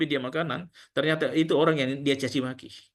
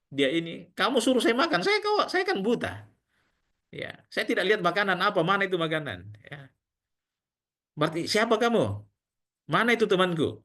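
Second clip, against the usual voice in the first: put-on raised, indignant complaint of an old blind beggar; blind man angry; 3 semitones higher than usual. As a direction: protest sharply, voice climbing higher. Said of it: "Itu kan orang buta marah ya". (pengemis buta marah dengan suara meninggi)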